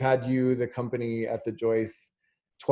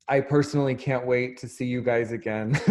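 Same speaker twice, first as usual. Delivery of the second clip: laughing; faster than usual. Real, not acted. Eager farewell with laughter.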